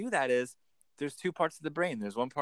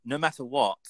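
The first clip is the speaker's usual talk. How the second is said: crisp RP with a sounded final T on "what"; RP accent. Shown as a demonstration. Coach showing the posh-standard British version, RP accent. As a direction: say "what" in RP, ending on a clear T. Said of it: "an R P, right?".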